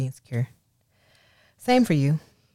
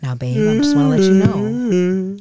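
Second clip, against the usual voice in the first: mock sweet telling-off; 5 semitones higher, 6 dB louder, slower than usual. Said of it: "Let me tell him why I'm mad".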